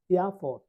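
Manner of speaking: এয়ারপোর্ট with both r's dropped; silent R. Shown as a demonstration. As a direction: say এয়ারপোর্ট like "ia-pot". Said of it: "আর এর উচ্চারণ হবে না". (র বাদ দিয়ে এয়ারপোর্ট)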